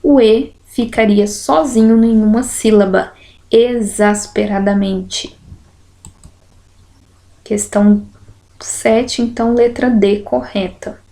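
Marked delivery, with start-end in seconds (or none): 3.5-5.3 slow, the E set apart: E-xas-pe-ra-da-men-te; E on its own. Shown as a demonstration. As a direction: sound out exasperadamente with E separate. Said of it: "aqui eu digo exasperadamente".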